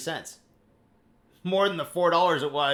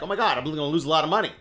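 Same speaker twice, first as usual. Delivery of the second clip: panicked trader; 2 semitones higher, 4 dB louder, much faster than usual. Retold or imitated. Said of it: "They're like".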